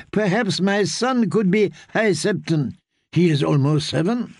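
high, lightly amused court lady; amused noblewoman. Acted. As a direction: play her as a chuckling, high-pitched lady.

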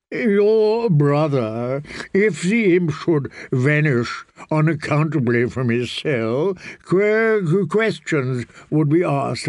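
a pampered eunuch pleading for gentleness; fussy eunuch. Acted. Narrator voices Varys.

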